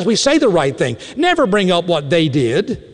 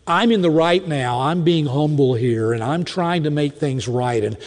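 self-righteous humility; 3 semitones lower than usual. Acted. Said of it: "Do you know what that says?".

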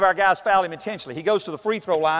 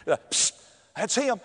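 soft hushed psst, much quieter; classmates whispering; 6 dB quieter, slower than usual. Retold or imitated. Schoolmates pointing him out in the hall, soft whisper. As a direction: hush it like gossip in the hallway.

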